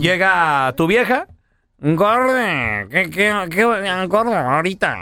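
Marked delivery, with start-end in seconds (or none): 1.8-5.0 lightly voiced wife. Husband voices wife's request.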